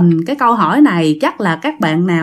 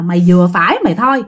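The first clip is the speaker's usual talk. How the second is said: exasperated mother scolding, rising higher and quicker; a tired mom snapping at her kid over dinner; mother scolding her six-year-old who spat out his food, fed up; scolding a child; 4 semitones higher than usual. Retold or imitated. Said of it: "bà này bả mới chửi".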